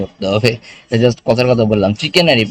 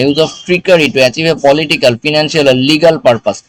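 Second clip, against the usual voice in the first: slow reading; much slower than usual. Shown as a demonstration. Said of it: "reading definition aloud slowly".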